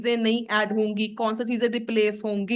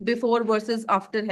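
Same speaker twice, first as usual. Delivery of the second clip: slow dictation; much slower than usual. Shown as a demonstration. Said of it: "teacher repeats the term again".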